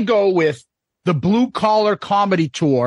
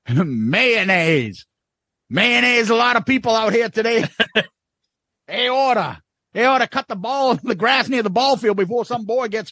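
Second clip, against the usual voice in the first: lightly voiced Southern twang; redneck words bit; 5 semitones higher than usual. Quoting Foxworthy's redneck words, light Southern accent. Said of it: "he does Redneck Words".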